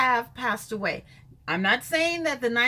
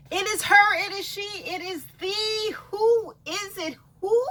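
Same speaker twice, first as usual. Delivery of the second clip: higher, drawn-out showy intro; hammed-up catchphrase; 8 semitones higher, 6 dB louder than usual. Vlogger introducing herself to viewers, in a high, drawn-out showy voice. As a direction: present herself like a diva, slowly.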